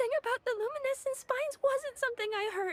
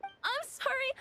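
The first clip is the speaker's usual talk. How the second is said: tearful; 3 semitones higher than usual. Acted. Child confessing a lie, near tears.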